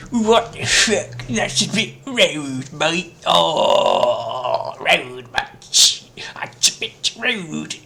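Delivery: mock outrage. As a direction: play it offended and cheeky. Mock-outraged British mate.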